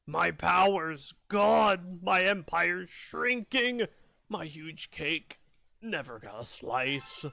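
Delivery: slow, defeated villain lament. Acted. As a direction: drag it out like a beaten tyrant. Reading the boss's lines.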